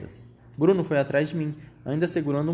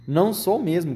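indignant raised cry, higher pitched; gritado; 5 semitones higher, 4 dB louder than usual. A narrator's reading. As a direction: cry out a firm denial, mildly shouted. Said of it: "gritou ele". (grito indignado contido)

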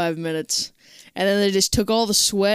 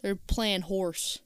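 whisper; 9 dB quieter, slower than usual. Real, not acted. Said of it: "whispered aside".

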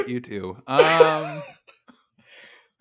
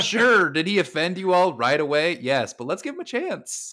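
high, loud mock defending; mock defensive; 7 semitones higher, 5 dB louder than usual. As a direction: defend him, hammed up. Mock defending a rude friend.

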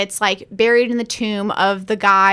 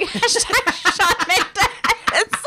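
higher, very slow sing-song hashtag; mock assistant; 7 semitones higher, much slower than usual. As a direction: stretch the catchphrase out. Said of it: "And it's like".

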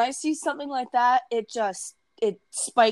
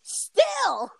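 very high pouty whine; whiny. Pretend. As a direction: pout it out, clingy. Whiny protest at cohost.

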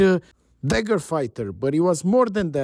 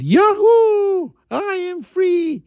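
high, loud cry of freedom; shouted whoop of release; joyful scream; 4 dB louder, slower than usual. A narrator's reading. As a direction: yell it out wildly, far higher. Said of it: "And he got up and screamed".

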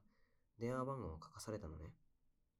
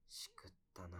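whispered thought; 6 dB quieter than usual. Retold or imitated. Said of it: "って思ったよ".

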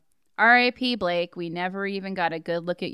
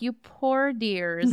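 slow, syrupy sympathy; pitying, slow; much slower than usual. Retold or imitated. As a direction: coo like a patronizing cop. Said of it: "they're like".

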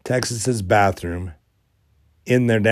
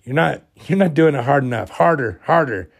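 higher-pitched retold nagging yell; mild mock yell; 5 semitones higher, 3 dB louder than usual. Echo ordering harder scrubbing in a dream, mock yelling. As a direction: imitate someone yelling orders, without full volume. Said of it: "Echo was yelling at me".

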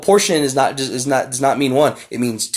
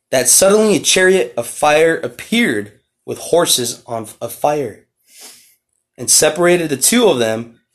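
scripture reading. Acted. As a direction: read the verses out like a preacher, slowing down. Reads scripture aloud.

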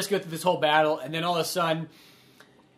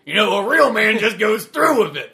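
unloving father; 4 semitones higher, 10 dB louder than usual. Retold or imitated. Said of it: "my unloving father".

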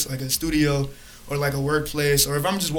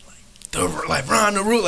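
hype intro; 5 semitones higher than usual. Shown as a demonstration. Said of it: "When you be introducing me, bro, you gotta be like".

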